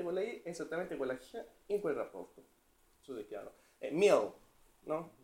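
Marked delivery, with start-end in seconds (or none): 3.9-4.3 "mill" with a dark, velarised English L; L scura all'inglese. Shown as a demonstration. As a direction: darken both the I and the L in "mill". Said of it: "la L si scurisce". ("mill" con la L scura, all'inglese)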